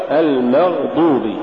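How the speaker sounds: المغضوب with a fully voiced, moderately heavy ghayn; correct ghayn. Shown as a demonstration. Tajweed teacher giving the example, correct ghayn. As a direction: sound the gh in المغضوب cleanly. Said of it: "والصواب".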